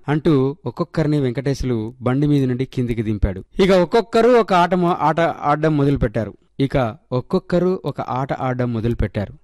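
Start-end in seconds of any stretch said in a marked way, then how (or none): 3.6-6.3 stumbled read. Real, not acted. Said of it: "re-read of the same sentence".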